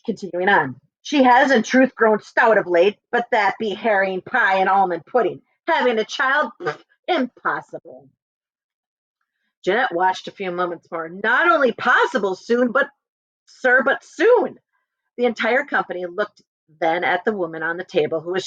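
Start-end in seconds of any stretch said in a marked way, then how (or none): 1.0-8.1 scoffing husband. Acted. 11.1-14.6 slow, raised, insistent; firm insistence. Acted. Janet correcting the doubting husband, slow and insistent.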